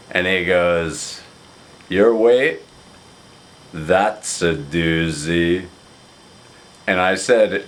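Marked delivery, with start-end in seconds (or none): 1.9-5.7 lower, slow mock pronouncement; a light imitation of a deadpan friend; slow mock verdict on the weight; Craig's low voice. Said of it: "he has a very low voice".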